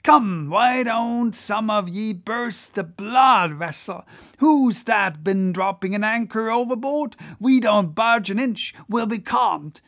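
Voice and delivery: high, loud goading of the rowers; rousing cry. Acted. Whaler to his crew racing the German boat, rousing cry. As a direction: whip up the crew, swelling to shouts. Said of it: "cried Stubb to his crew".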